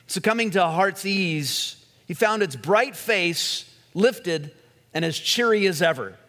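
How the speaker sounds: lively parable reading, mildly lifted; story narration. A narrator's reading. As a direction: read the fable out to a congregation. Reads a parable aloud.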